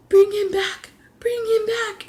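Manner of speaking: gasp, then a high whispered begging; imitating a crying girl begging in a high whisper; sobbing whispered plea. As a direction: plead in a breathless high whisper through tears. She was heavily crying.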